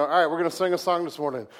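loud, cheery mock song intro; mock worship leader. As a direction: shout it like a rowdy praise chant. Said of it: "can you imagine Nick coming out".

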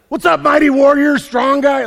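loud, high hail to an unlikely tough guy; mock hearty greeting. Somebody walks up to Steve Urkel, mock hearty greeting. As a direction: call out a hammed-up macho hello. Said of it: "somebody walking up to Steve Urkel".

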